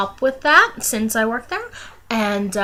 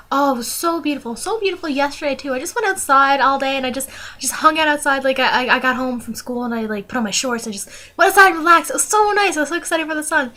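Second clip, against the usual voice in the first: higher, brighter retold gush about the sun; eager chatter about a sunny day; excited gush; 5 semitones higher than usual. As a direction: gush happily, reliving it. Retelling her own eager reply.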